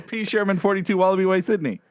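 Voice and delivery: half-built Australian accent. Shown as a demonstration. Co-host warming up on an address, in tentative Australian. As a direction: try the Australian with a keyword phrase. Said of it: "keywords to, to get me into it".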